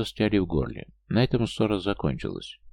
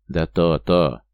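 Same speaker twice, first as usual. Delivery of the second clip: angry outburst; 2 semitones lower, 6 dB louder, much slower than usual. A narrator's reading. Angry husband snaps back.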